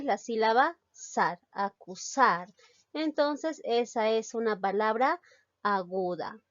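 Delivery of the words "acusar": "acusar" with the last syllable sar held and weighted; stress on SAR. Shown as a demonstration. Teacher shows which syllable sounds strongest, stress on SAR. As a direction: lean on the final sar in "acusar". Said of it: "¿Cuál suena más?".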